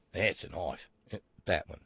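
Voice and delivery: bad Australian accent, firm falling punchline on That's. Host delivers the Dundee punchline in a bad Australian accent. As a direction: settle the Australian line down, proud and final. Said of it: "my bad Australian accent portion".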